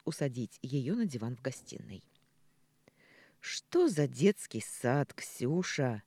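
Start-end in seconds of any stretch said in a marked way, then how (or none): 3.4-6.0 wearily. Acted. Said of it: "устало поинтересовался Михаил".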